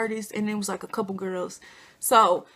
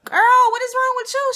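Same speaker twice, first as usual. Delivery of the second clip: high, loud exasperated call; retold high-pitched loud "girl" outburst; exclaiming; 13 semitones higher, 7 dB louder than usual. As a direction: throw it at her, half alarmed and half fed up. Confronting crying cousin.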